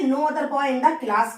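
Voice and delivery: slow, words spaced out; slow dictation. Shown as a demonstration. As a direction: dictate it to the class. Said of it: "teacher dictates phrase again". (धीरे-धीरे बोलकर लिखवाना)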